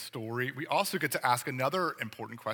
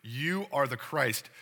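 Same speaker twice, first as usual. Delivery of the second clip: slow, steady and certain, "You" leaned on; firm statement of fact; slower than usual. Retold or imitated. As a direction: state it as settled fact, no hedging. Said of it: "a firm statement of fact".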